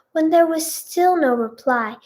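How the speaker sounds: put-on children's TV storyteller narration; story narration. A narrator's reading. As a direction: read it out like a storyteller. Reads fan fiction aloud.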